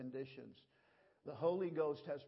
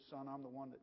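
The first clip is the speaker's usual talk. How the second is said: soft, dropping reveal; hushed story punchline; quiet punchline; 8 dB quieter than usual. Retold or imitated. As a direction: let the reveal land quietly.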